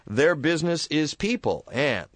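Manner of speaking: radio sponsor read, upbeat. Acted. Host reads sponsor ad.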